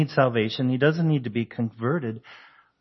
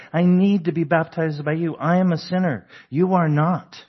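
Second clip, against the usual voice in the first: higher-pitched, emphatic retold protest; earnest protest; 4 semitones higher than usual. Preacher voices John telling Jesus he is the sinner, earnest protest. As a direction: press each contrast, pitched up.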